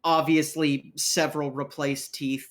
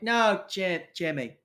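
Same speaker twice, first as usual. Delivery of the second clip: slightly raised, wheedling patter; coaxing street rogue; 3 semitones higher than usual. Acted. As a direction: press a reluctant contact for info. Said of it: "He goes".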